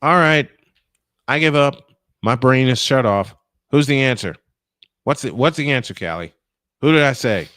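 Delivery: loud, exasperated surrender; loud giving up. Real, not acted. To the reporter after failing the trivia, loud exasperation. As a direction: give up on the puzzle at full volume.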